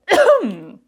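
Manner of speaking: loud choking cough; sudden loud cough. Real, not acted. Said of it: "choked on nothing".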